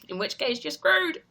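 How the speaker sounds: laughing, pitch climbing on the punchline. Real, not acted. Streamer joking to viewers about missed deadlines, laughing. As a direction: laugh it out as a cheerful doom verdict.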